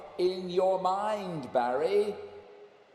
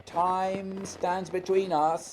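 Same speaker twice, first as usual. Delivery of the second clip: louder, firm dismissal; insistent raised voice; 3 semitones higher, 6 dB louder than usual. Acted. Scott insisting Barry cannot follow, loud and firm. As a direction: shout him down over the wind.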